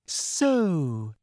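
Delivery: triumphant. A narrator's reading. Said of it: "said Umbridge triumphantly".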